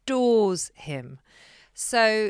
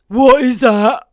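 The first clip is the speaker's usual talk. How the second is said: shocked question; 4 semitones higher, 14 dB louder, slower than usual. Retold or imitated. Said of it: "Lily Rose is like".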